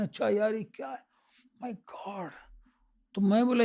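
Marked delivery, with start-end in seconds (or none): 0.0-2.3 awed murmur. Retold or imitated. Amazed at outsiders' politeness.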